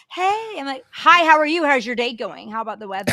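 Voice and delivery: high, loud chipper greeting settling down; professional small talk. Retold or imitated. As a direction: chirp the polite small talk. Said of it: "I get my professional shit going on".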